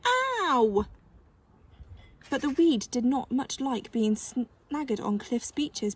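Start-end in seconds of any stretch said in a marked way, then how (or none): 0.1-0.8 high loud squawked "Ow"; parrot yelp. Acted. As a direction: yelp like a pecked bird. Parrot yelps.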